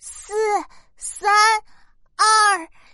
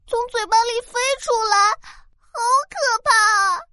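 frightened; 4 semitones higher, 3 dB louder than usual. Acted. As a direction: gasp it out in fright. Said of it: "兔依依担心极了".

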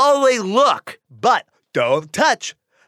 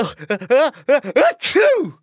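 big sneeze; 6 semitones higher than usual. Acted. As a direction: let a huge sneeze burst out. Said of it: "I like to sneeze".

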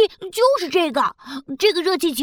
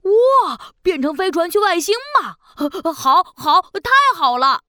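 excited. Acted. Balloon thrilled to fly.

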